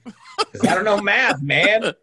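high, laughing mock repeat; giggling through a teasing echo. Real, not acted. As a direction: crack up while repeating the line. Mocking the quote through laughter.

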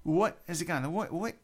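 high, mock startled questioning; a touch of caricatured bewilderment; lightly mimicked confused housemate. Housemate coming down into the argument, high mock confusion. Second housemate joins the row.

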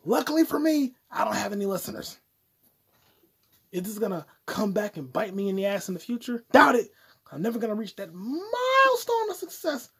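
high put-on voice.

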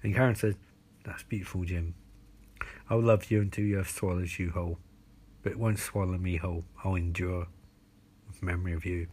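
measured, portentous tale-telling; mock horror storytelling. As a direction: tell it as a deadpan tale of terror.

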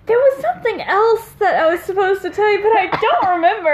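high, laughing imitation of a forgetful friend; high-pitched quote, half breaking into laughter; mock-frantic retelling. Retelling what he forgot to say, mock-frantic and high.

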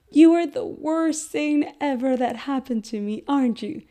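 loving sing-song with a mean message; kind loving voice. Shown as a demonstration. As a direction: coo harsh words tenderly to a baby. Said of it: "with a very kind and, and loving voice and caring voice".

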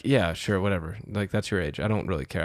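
soft, offhand dismissal; indifferent. Retold or imitated. Bouncer retelling how he accepts foreign IDs, indifferent. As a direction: wave it through, unbothered.

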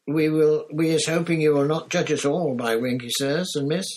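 high, loud, squeaky elf plea; an ashamed house elf begging not to be judged; squeaky earnest plea; pleading elf. Acted.

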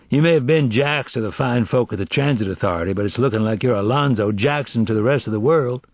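lightly voiced agent, showy and sardonic; wry, wordy interrogator; mocking federal agent. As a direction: read out the suspect's record with mock ceremony.

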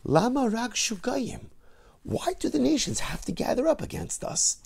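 high, anguished cry to the heavens; desperate plea. Acted. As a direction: voice David's desperation, pleading upward. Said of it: "you almost hear the desperation in his voice".

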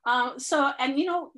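blocked nose from a cold; stuffy nose. Real, not acted. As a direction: talk through a stuffy nose. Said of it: "You can hear I'm a little stuffy".

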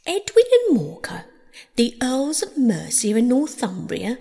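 high, loud, grand declaiming; loud recitation. Acted. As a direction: proclaim it like a herald. Mouse's recitation resumed, loudly declaimed.

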